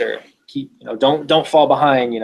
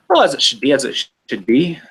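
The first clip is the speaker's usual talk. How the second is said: put-on bastardized Irish accent; 3 semitones higher, faster than usual. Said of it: "a bastardized Irish accent".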